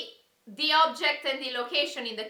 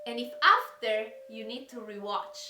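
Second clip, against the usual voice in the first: mysterious riddle reading; 2 semitones lower than usual. Acted. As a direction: read the riddles like a spooky secret. Reads rhyming riddles dramatically.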